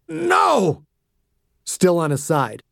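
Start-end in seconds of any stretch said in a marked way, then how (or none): 0.1-0.8 much higher, frightened cry; terrified plea. Acted. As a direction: cry out in terror. Beaten man pleading.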